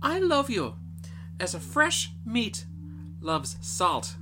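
put-on a girl answering her father frankly; youngest daughter voice. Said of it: "says she".

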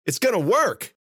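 high, loud thrilled call; excited yell. A narrator's reading. Ben calling to Cece, excited yell. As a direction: call out with joy. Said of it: "Ben yelled to Cece".

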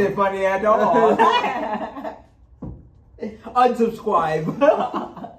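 laughing through the words; choking with laughter. Real, not acted. Laughing while joking.

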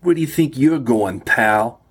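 a hint of a brusque New York guard; tough guard. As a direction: challenge the stranger, lightly voiced. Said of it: "Then changing his tone".

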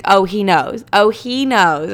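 slow, emphatic knowing repeat; retold knowing assurance. Psychic assuring her doubting client, knowing and emphatic. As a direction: insist knowingly, drawing out the second one. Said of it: "And she's like".

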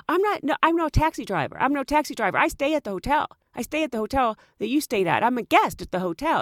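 lightly voiced defensive driver; imitating taxi driver. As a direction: insist in broken English. Voicing the driver.

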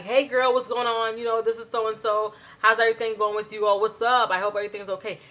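put-on bright, quick, chatty girlfriend greeting; chatty with a friend. Shown as a demonstration. Teacher showing how you greet a best friend, excited and quick. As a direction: gush like you're catching up with your best friend. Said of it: "You're gonna be like".

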